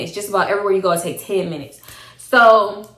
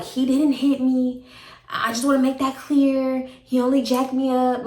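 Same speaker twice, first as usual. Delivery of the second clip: retold own defensive claim; 4 semitones higher than usual. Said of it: "I'm like".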